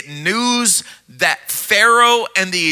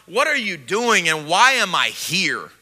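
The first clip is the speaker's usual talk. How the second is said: frustrated prayer; 3 dB quieter than usual. Acted. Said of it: "he's getting a little frustrated".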